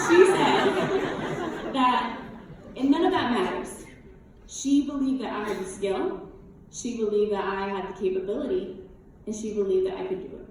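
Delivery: real emotion held back, with halting pauses between phrases; choked up. Real, not acted. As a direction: push through the words while fighting tears. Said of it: "I'm getting emotional".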